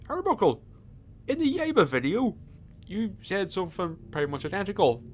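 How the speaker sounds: high, squeaky heckling viewer voice; mock viewer voice. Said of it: "you may be saying".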